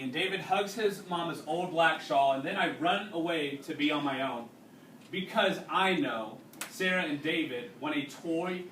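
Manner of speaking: reading a story aloud to a class; unhurried read-aloud narration for students. A narrator's reading. Teacher reading a wartime novel to the class, steady narration.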